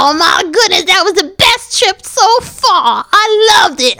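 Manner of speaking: happy tears. Acted. Friend moved to happy tears after the trip, teary. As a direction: choke up lightly with happy tears. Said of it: "Oh, don't cry tears".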